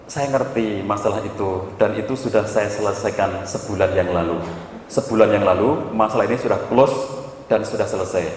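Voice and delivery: low, measured counselor voice; retold calm explanation; calm reassurance. Counselor calmly breaks news to wife.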